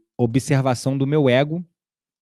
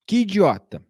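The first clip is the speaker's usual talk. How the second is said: inner critic voice; 4 semitones higher than usual. Retold or imitated. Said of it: "entrou com um crítico interno falando".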